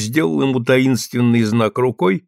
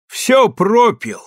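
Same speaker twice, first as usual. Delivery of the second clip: gruff scolding master; 8 semitones higher, 3 dB louder, slower than usual. Acted. Master scolds drunk soldier.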